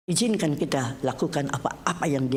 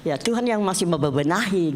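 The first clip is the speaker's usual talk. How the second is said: a hint of a divine speaker holding firm; God's reply; 4 semitones higher than usual. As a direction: voice God putting someone off, stretching the words. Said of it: "Tuhan bilang".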